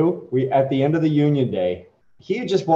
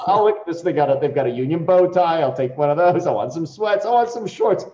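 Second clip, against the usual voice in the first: son shopping eagerly. Retold or imitated. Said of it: "He's like".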